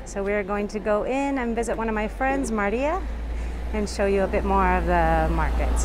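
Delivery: speaking through a face mask, muffled. Real, not acted. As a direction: talk muffled behind a mask. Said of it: "if I sound muffled".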